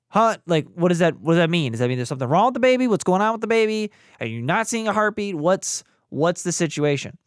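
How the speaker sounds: rapid retold questions with a touch of alarm; mock worried questioning. Expectant father quizzing the ultrasound tech, mildly alarmed.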